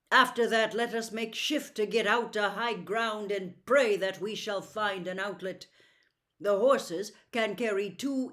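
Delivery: a prince giving orders for the escape. Acted.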